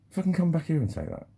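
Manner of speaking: high, loud mock-angry dare; retold furious inner challenge, a touch hammed-up. Angry dancer imagining shouting back at the dude. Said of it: "Then I got quite angry".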